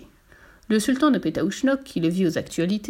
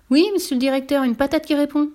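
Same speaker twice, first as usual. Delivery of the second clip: higher, louder eager tramp; keen, pitched-up pitch; eager insisting; 6 semitones higher, 4 dB louder than usual. Acted. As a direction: insist excitedly to the boss.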